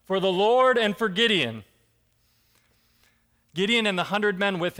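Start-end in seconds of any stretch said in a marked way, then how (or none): 0.0-1.6 mock battle cry. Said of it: "blow yours and shout".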